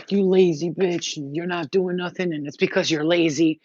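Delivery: a touch of bitter self-reproach; self-scolding. Retold or imitated. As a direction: scold yourself like a harsh inner voice. Berating herself in memory.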